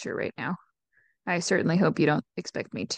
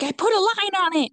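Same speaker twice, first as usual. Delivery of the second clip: put-on evil drunk mom; 12 semitones higher, 7 dB louder than usual. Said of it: "She's like".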